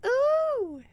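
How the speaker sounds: loud high-pitched "ooh" squeal; sudden high squeal. Real, not acted. Reaction to the hissing cat.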